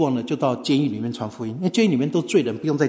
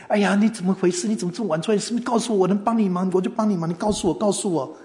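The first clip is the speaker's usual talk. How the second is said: higher-pitched, insistent questioning; anxious concern; 4 semitones higher than usual. Retold or imitated. Host offering help to late visitor, anxious concern. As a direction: press them to let you help.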